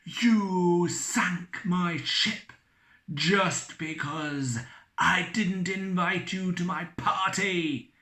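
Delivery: slow, high taunting ghost. Acted. Ghost taunting the drunk captain, high and slow. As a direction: taunt him like a vengeful spirit.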